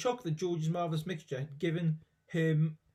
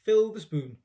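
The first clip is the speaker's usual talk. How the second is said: loud, high command; grandma snapping an order to George, loud; barked order; 5 semitones higher, 8 dB louder than usual. Acted. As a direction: bark it at the boy.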